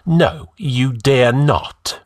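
bleak grin. Acted. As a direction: grin as you say it. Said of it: "Escalante grinned bleakly".

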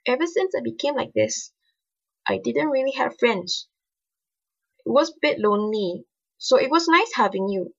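lightly voiced shy young girl. A narrator's reading. Narrator voices Ali confiding.

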